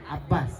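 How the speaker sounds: low, soft model of ಅಬ್ಬಾಸ್; pronunciation correction. Shown as a demonstration. Director correcting the actress on the name, demonstrating. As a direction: say ಅಬ್ಬಾಸ್ low with a clear b, not p. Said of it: "ಅಪ್ಪಲ್ಲ".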